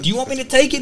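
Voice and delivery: half-mock alarmed plea to the instructor; retold panic. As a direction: ask like the plane is falling. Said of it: "I'm like".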